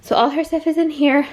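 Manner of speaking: talking while out of breath; breathless, catching air between words. Real, not acted. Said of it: "Sorry, I'm so out of breath".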